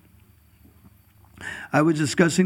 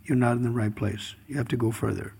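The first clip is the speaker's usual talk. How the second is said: lower, quiet confiding; quietly setting him straight; a hint of gentle advice; 3 semitones lower, 3 dB quieter than usual. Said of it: "Narada Muni says".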